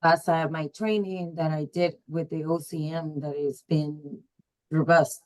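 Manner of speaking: muffled voice, like a covered mic. Real, not acted. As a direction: talk as if through a hand over the mouth. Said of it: "you sound muffled to me".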